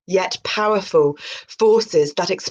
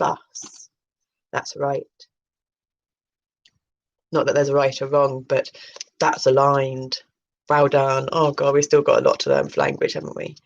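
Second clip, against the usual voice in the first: a lower, knowing voice doling out praise; low mock guru; 5 semitones lower than usual. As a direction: play a smug spiritual mentor, dropped lower. Lower second persona praising.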